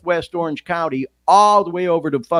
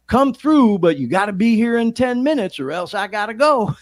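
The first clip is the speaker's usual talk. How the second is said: pushy dealer; 5 semitones higher, 4 dB louder than usual. Retold or imitated. Quoting the drug dealer's text.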